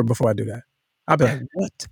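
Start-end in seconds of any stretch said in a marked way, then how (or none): 1.5-1.9 high, slow aggressive whisper. Shown as a demonstration. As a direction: whisper it like a threat. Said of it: "I'll whisper".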